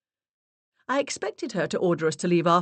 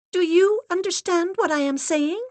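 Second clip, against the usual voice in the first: high, grave, steady voice; solemn medium's assistant; 14 semitones higher, 6 dB louder than usual. Acted. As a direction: speak like a severe séance guide. Assistant's held voice.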